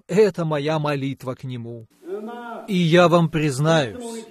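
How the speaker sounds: normal talking voice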